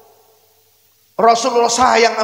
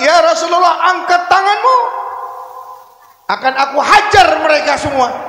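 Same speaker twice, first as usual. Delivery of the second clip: fierce offer; 3 semitones higher than usual. Acted. Jibril offers to strike.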